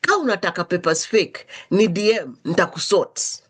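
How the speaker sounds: "Ka unataka papers fake" in lively Kiswahili street tone; Kiswahili version. Shown as a demonstration. Retelling the fake degree post in Kiswahili, lively tone. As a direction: say it the Kiswahili way, casual and knowing. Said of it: "Let me say it in Kiswahili".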